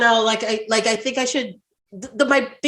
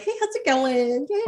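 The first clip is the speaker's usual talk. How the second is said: chatty, higher-pitched greeting; a hint of gossipy phone-call teen; lightly voiced teenage girl; 5 semitones higher, 3 dB quieter than usual. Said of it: "like, teenage girls".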